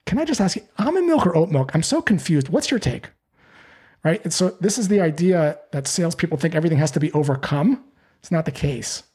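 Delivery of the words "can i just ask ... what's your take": higher, bubbly mock-confused question; playful mock confusion. Shown as a demonstration. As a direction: play it light and silly to disarm them. Joking with prospect at Whole Foods.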